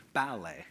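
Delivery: ballet said BAL-lay; first-syllable stress. Retold or imitated. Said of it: "put the stress on the first syllable".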